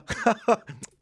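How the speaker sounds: high forced chuckle; put-on amused titter; mock laugh. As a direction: laugh as if at a feeble joke. Laughing at a lame lawyer joke.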